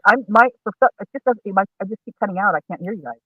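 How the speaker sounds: muffled, breaking-up phone line. Real, not acted. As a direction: voice cutting out on a call. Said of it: "you're muffled again".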